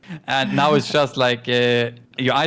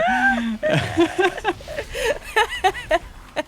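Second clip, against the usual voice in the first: long high laugh. Real, not acted. Long laugh at her rambling.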